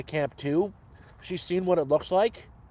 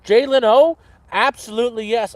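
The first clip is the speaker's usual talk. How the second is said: excited answer; 6 semitones higher, 8 dB louder than usual. Real, not acted. Answering a chat question eagerly.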